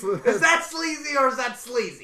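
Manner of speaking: loud, boastful wrestler; hammed-up bragging question; Seth Rollins. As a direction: crow it like a wrestling star. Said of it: "Seth Rollins is coming".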